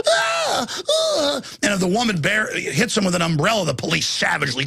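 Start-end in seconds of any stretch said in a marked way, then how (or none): 0.1-1.4 high mock shriek; hammed-up high scream; mock women's scream. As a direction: shriek it like a panicked woman. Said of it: "And the women go".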